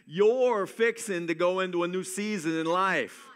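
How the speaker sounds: a hint of a Kentucky preacher accent. Shown as a demonstration. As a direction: play up a Kentucky accent, lightly. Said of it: "here's my Kentucky accent".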